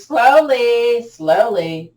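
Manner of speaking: slowly, each word stretched out; stretched-out, emphatic coaching cue; drawn-out cue. Real, not acted. Teacher guiding hands back to the chest, drawn out. Cueing a slow movement.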